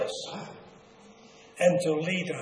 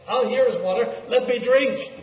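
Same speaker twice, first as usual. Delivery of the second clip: higher, eager exclamation; impatient sheep; 5 semitones higher, 4 dB louder than usual. Acted. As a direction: voice a sheep that cannot wait to drink. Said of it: "the sheep were impatient".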